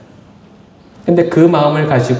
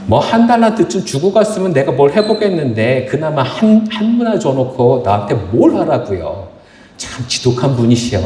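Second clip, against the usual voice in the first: resentful complaint; 3 semitones higher than usual. Acted. Servant blames master for the small sum, resentful. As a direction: gripe at the master with mild indignation. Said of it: "지금 주인에게 욕을 하고 있는 거예요".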